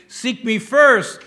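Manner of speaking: seek me first, very slow and loud; slow emphatic quote. Acted. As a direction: speak as God, slow and firm. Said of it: "God is saying".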